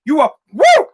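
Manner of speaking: high loud party whoop; drunken whoop. Pretend. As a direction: whoop like you're flying drunk at midnight.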